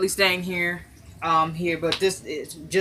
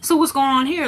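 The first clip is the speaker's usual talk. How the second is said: suspicious mother; 7 semitones higher than usual. Retold or imitated. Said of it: "and she's like".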